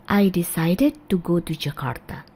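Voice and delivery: careful, even pace; slow. Shown as a demonstration. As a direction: say "decided" with a full "id" ending. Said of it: "Atau kalau cepat".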